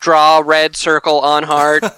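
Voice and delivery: slow mechanical instruction voice; robot voice. Retold or imitated. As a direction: read it like a device prompt. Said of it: "a robot voice".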